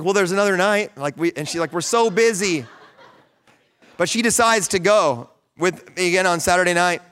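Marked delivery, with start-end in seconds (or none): 0.0-1.0 laughing through the words; laughing lightly as he retells his reply. Retold or imitated. Joking reply to wife. 1.7-2.7 wife's excuse through a laugh; retelling the wife's excuse with a chuckle. Retold or imitated.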